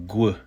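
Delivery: "gu" with a hard G before the W glide; GW pronunciation. Shown as a demonstration. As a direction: sound out "gu" as one short GW sound. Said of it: "at times be pronounced".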